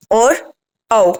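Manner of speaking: slow, stretched vowel sounds; reciting vowels like a teacher; drawn-out vowel demo. Shown as a demonstration. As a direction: draw the vowels out slowly. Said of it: "मैं लिख देता हूं आगे".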